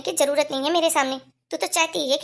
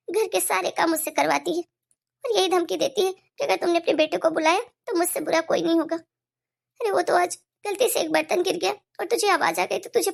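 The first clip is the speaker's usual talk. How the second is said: put-on aggrieved old mother. Mother complaining to son about daughter-in-law, plaintive.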